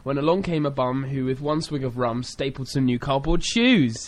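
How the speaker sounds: sing-song limerick recital; bouncy limerick lilt. Shown as a demonstration. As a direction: read it with a bouncy rhythm. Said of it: "Oh, this one is good".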